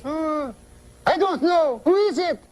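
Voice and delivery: puzzled falsetto wife; high woman's voice. Acted. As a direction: play the stumped wife up in falsetto. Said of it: "She's a woman, high voice".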